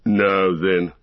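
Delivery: menacing orc leader voice; gruff orc captain. Acted. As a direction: threaten like a brutal orc captain. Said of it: "said Ugluk".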